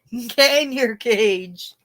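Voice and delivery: very slow, stretched repeat of the order; drawn-out Debbie Manopoulos. Retold or imitated. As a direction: draw the command out, savouring it. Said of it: "Debbie Manopoulos".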